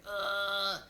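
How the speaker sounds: sustained lazy grunt; half-hearted push grunt. Retold or imitated. Mom showing her nurse a push, half-hearted grunt. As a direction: imitate a push with little effort. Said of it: "like, this half butt push".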